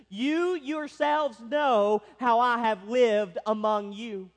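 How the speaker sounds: slow, weighty emphasis on "You yourselves know"; emphatic. Retold or imitated. Preacher quoting Paul's words to the elders, emphatic. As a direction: stretch out "You yourselves" with firm force. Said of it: "this is very emphatic".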